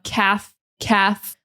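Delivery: "Cath" ending on a clear th; strong TH. Shown as a demonstration. Teacher drilling the T H sound, strong th. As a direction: hold the th at the end of "Cath". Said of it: "that strong T H sound".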